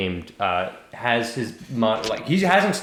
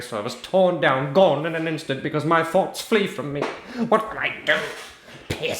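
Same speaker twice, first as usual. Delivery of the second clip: panicked rant; 3 semitones higher, faster than usual. Acted. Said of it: "he goes".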